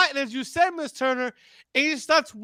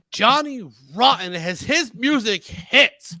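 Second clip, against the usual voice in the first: wrestling announcer calling a matchup; deliberate ringside announcer delivery; wrestling commentary; 7 semitones lower than usual. Pretend. Live wrestling play-by-play call.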